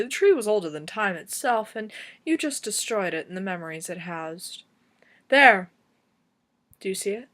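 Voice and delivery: accusing verse, key words hit hard; slam poetry. Acted. Poet mourning the destroyed willow and its memories, slam poetry. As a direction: recite as lament and accusation, easing at line ends. Slams willow tree poem.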